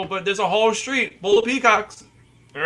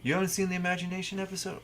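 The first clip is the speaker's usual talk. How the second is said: Mister Rogers voice; 7 dB quieter, faster than usual. Real, not acted. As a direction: speak softly like a friendly TV host. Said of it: "Why are you saying it so soft, like Mister Rogers?".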